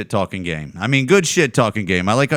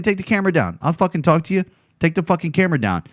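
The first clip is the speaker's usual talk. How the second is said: higher, pushy imitation of an annoyed man; mock demand; 5 semitones higher, faster than usual. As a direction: play him snapping at the camera, a bit sped up at the end. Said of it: "he's basically saying".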